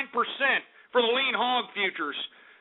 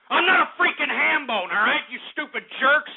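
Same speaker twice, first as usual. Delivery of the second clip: indignant; 5 semitones higher than usual. Real, not acted. Angry denial at mockers.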